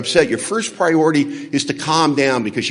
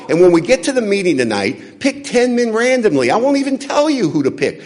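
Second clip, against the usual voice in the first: raised, heated rant at his wife, getting higher; angry rant; 5 semitones higher, 4 dB louder than usual. Retold or imitated. Husband yelling at wife over his bloody thumb, heated rant. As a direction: rail at her, pitch climbing with fury. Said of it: "and I said".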